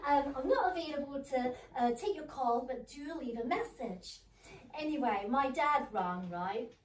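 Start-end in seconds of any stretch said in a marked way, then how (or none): 0.1-4.2 playful Scottish voicemail greeting, high on the hello; lightly hammed-up Scottish accent for an outgoing message; put-on Scottish accent. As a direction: do a jokey Scottish answerphone voice. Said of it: "I put a Scottish accent on".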